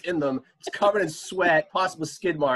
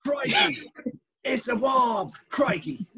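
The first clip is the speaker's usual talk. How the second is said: very high, hammed-up Aussie cries; mock Australian accent; 10 semitones higher, much slower than usual. Showing co-hosts how to fake it, mock Australian accent. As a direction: squeal it like a cartoon Australian. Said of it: "Just say crikey a lot".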